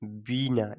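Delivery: बीना with the ee held; बीना said with a long first vowel; stretched long vowel. Shown as a demonstration. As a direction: stretch बी in बीना as a reading model. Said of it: "इसे थोड़ा खींच करके sound आता है".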